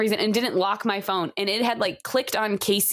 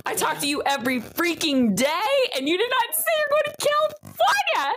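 retold outburst; 6 semitones higher than usual. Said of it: "I was like".

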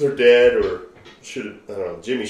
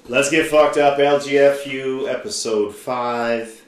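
hype intro; 5 semitones higher, 8 dB louder, slower than usual. Acted.

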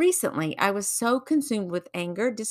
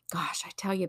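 whispered aside; 5 dB quieter than usual. Real, not acted. Confiding aside to listeners.

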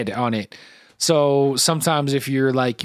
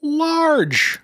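incredulous echo; 12 semitones higher than usual. Real, not acted. Echoing the quoted word incredulously.

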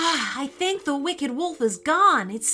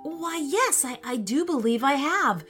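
high, innocent helpfulness; feigned innocence; 6 semitones higher than usual. Acted. Young wizard misleads the wicked wolf, innocently. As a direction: play the innocent witness on a higher pitch. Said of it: "said the young wizard innocently".

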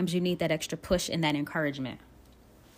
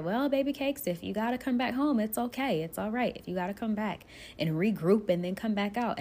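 encouraging father; 4 semitones higher than usual. Retold or imitated. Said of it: "my parents were encouraging me to come back home".

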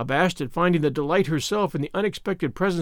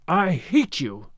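slow, drawn-out angry cry; choked cry; slower than usual. A narrator's reading. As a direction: stretch it out with choked fury, acted. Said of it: "she cried in a choked voice".

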